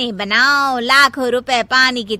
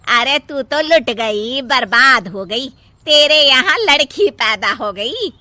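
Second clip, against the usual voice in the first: scornful lament. Acted. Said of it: "Savitri मुंह बना के कहती है".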